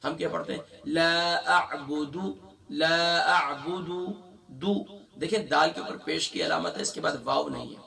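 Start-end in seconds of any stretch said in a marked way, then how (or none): 0.8-3.9 اعبد with its final د drawn out as دو; wrong long dal. Shown as a demonstration. Teacher demonstrating the stretched dal mistake. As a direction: drag the dal vowel, the mistake. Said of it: "دال کو ہم کھینچ دیتے ہیں".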